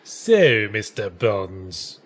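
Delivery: Bond villain voice. Retold or imitated. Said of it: "I was picturing it like a James Bond villain".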